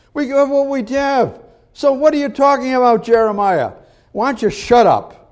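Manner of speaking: high-pitched scornful challenge; mocking jeer. People telling Jeremiah to shut up, mocking. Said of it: "Mocked him".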